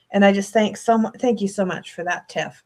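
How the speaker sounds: low, softening, heartfelt thanks close to tears; teary-eyed. Real, not acted. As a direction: let the voice sink as tears well up. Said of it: "now I'm getting all teary-eyed".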